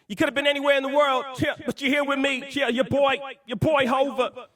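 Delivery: high-pitched hype rapper impression; a famous rapper. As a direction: work the crowd as a rapper between songs, stretching the last words. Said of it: "I've been talking a lot like, uh, Jay-Z".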